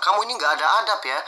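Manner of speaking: retold angry scolding. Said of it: "langsung dibilang".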